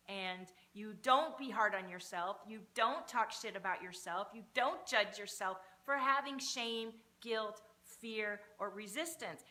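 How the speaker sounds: loud, slow, emphatic pep talk; booming motivational speech. Acted. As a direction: hammer each don't home like a life coach. Coach pep talk to viewers.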